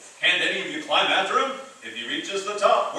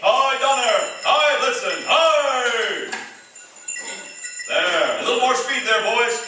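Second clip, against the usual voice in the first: calling out; 4 semitones higher than usual. Acted. Santa calling to his reindeer.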